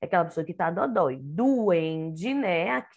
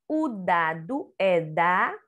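slow reading aloud; 2 semitones lower, slower than usual. Shown as a demonstration. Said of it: "D com A".

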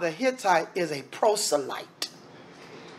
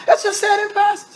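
"Let's just say it in passing" pitched way up, insistent; insistent repeat; 13 semitones higher, faster than usual. Real, not acted. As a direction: push the whole phrase high to insist.

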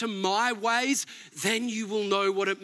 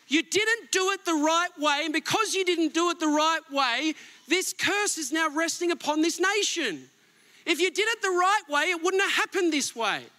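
stern rebuke; 6 semitones higher than usual. Retold or imitated. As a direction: bark it like a stern father rebuking. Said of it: "He doesn't soften. He just goes".

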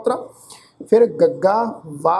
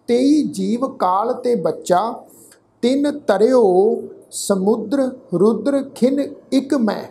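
slow, measured chanting recitation of gurbani; ਹੌਲੀ ਸ਼ਰਧਾ ਭਰਿਆ ਪਾਠ; scripture recitation; slower than usual. Acted. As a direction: recite each word slowly and devoutly.

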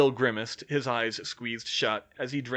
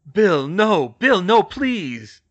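loud, raised desperate plea; crying out; 7 semitones higher, 12 dB louder, much slower than usual. A narrator's reading. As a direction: shout to stop him, drawing out the end. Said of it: "Harry cried".

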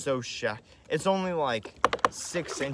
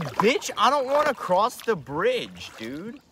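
loud, high, panicked plea to the lurking gator; scared yelling at a troll; 7 semitones higher, 5 dB louder than usual. Retold or imitated. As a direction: freak out at the monster under the bridge, half joking.

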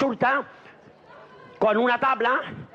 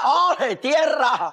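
higher, acted cry of joy; exclamación de júbilo; 4 semitones higher, much slower than usual. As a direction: burst out as if sighting land. Bride bursts out after fifteen days. (grito jubiloso fingido)

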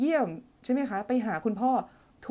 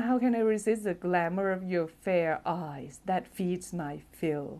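dramatic romantic reading; 3 semitones lower, much slower than usual. Shown as a demonstration. Host reads a viewer's love line in a swoony put-on voice. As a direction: croon it like a lovesick poet. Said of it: "เธอทำไมเธอต้องทำเสียงนี้ล่ะ".

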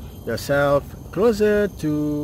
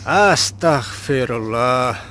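slow, reverent; 4 dB louder, slower than usual. Shown as a demonstration. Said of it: "comes to my mind is".

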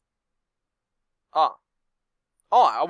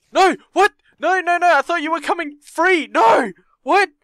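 high, loud panicked yelling; real alarm at the game; frantic high shouts of no; panicked shouting; 13 semitones higher, 12 dB louder than usual. Real, not acted. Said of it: "player panics as villain escapes".

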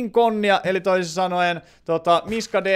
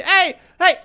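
high, loud sudden no; a startled protest; sharp cry; 10 semitones higher, 5 dB louder than usual. Real, not acted. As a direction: blurt it out. Reacting to a sudden game event.

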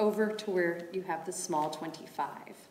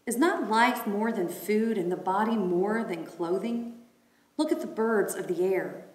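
raised, proclaiming reading voice; scripture reading. Acted. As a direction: read it out like a lesson.

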